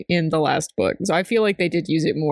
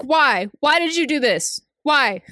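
higher-pitched mock protest; acted, pitched-up bewilderment; exasperated editor; 6 semitones higher, slower than usual. Imagined editor protesting to the author.

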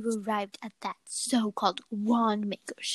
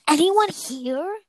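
yelling; 7 semitones higher, 4 dB louder, slower than usual. Acted. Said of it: "I yelled".

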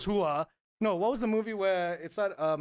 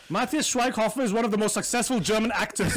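louder, boastful read-out; braggy; 3 semitones higher, 5 dB louder than usual. Retold or imitated. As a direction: read the bio like a proud boast. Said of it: "sounds a bit braggy".

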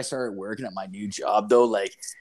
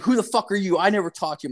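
high-pitched mock indignation; retold angry yell; 8 semitones higher, faster than usual. Angry customer challenges the boyfriend, high mock-indignant voice. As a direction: imitate an irate man with the voice pushed up high. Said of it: "this dude yelling".

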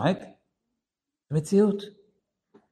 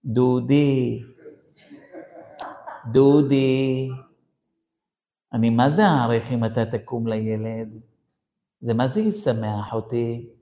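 mock-sweet, gentle wifely coaxing; lightly acted polite pleading; nice words; 2 semitones lower than usual. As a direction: ask nicely, as a patient wife would. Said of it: "אין לה זמן להגיד כל מיני מילים יפות".

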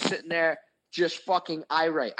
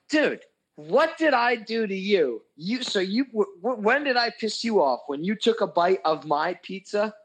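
higher-pitched mock outrage; retold indignant protest; 4 semitones higher than usual. Retelling his protest to his buddy, indignant. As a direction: plead your case, pitched up and indignant.

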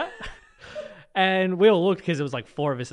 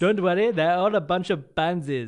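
Madagascar character impression. Host doing a Madagascar character on air, lightly put-on voice. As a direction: do the guy from Madagascar. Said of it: "I can do the guy from Madagascar".

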